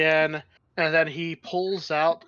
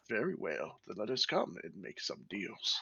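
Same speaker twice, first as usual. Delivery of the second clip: put-on posh British accent; 6 semitones lower, 12 dB quieter than usual. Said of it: "posh British accent".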